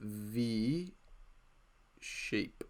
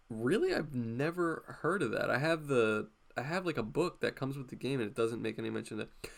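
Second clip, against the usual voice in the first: mock skepticism.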